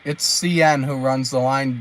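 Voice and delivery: talking with mouth full; words round a bite of food; chewing noisily. Real, not acted. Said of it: "I'm eating some food".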